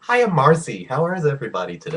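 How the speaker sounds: chirpy fake American greeting; mock American accent. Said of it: "Why are you doing an American accent".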